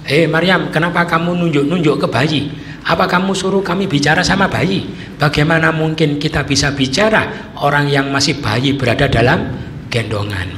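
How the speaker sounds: high, loud indignant crowd scolding; angry crowd. Retold or imitated. Townsfolk angrily confronting Maryam, high loud scolding. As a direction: scold her as a furious mob. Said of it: "Lah mereka marah-marah".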